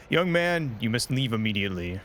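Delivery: a sudden commanding call, then firm; stern emperor voice. Acted. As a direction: order him out like a ruler.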